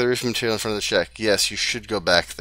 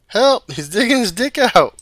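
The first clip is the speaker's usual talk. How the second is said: high, loud screaming alarm; shouting for help; 12 semitones higher, 6 dB louder than usual. Acted. Child falsely accusing the cop, screaming. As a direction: scream it to the neighbours.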